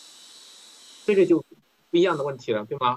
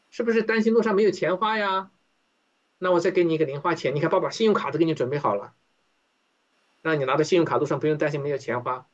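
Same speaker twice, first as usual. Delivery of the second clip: indulgent father; faster than usual. Acted. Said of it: "这个时候上帝说".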